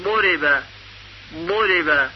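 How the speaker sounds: ضرب with zad and damma; teacher modelling; model pronunciation. Shown as a demonstration. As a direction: say ضرب with rounded u. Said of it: "زاد مضموم مثل".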